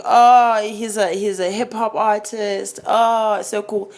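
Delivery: drawn-out, swooning "oh"; lightly mocked dreamy admiration; younger self, starstruck. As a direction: imitate a dazzled young fan, slowly. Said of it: "when I was younger, I was like".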